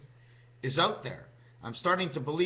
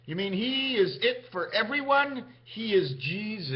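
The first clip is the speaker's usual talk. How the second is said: bystander's voice; 6 semitones higher than usual. Retold or imitated. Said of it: "Guy behind him says".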